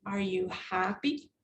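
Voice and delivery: "Are you happy?" low and soft, rising on "happy"; question intonation. Shown as a demonstration. Teacher showing intonation to class, rising question on "happy". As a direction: lift the end of "happy" from a low start. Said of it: "It could be used for intonation".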